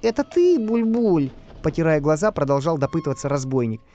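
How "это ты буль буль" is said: high-pitched robber's question; robber character. A narrator's reading. Robber woken by a tug on his leg, high character voice.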